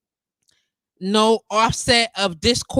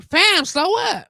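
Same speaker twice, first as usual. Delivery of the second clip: slow up; 7 semitones higher, slower than usual. Retold or imitated. Telling brother to slow down.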